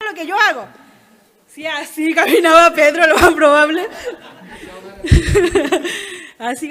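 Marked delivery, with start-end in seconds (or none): 0.1-0.7 quick, proud retold exclamation; mock excitement. Jesus watching his disciple imitate him, excited. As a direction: voice a teacher thrilled by a pupil. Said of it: "Jesús estaba emocionado".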